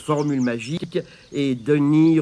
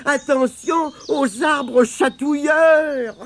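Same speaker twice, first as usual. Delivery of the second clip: exclaiming; 10 semitones higher, slower than usual. Acted. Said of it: "s'écria Tirondin".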